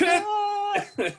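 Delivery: high, loud mock wail; retold crying. Starstruck fan breaking down at the author's hello, tearful. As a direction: burst out in a hammed-up wail. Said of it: "I just started crying".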